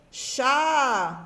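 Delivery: first syllable of "chameau", "Chat", held long; isolated syllable, drawn out. Shown as a demonstration. Teacher isolating the first syllable, "Chat" drawn out. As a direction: stretch the vowel of "Chat". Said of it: "La première syllabe".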